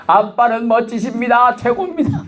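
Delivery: put-on high child voice buttering up dad; flattering child. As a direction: sweet-talk daddy in a high little voice. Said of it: "애들이 와서".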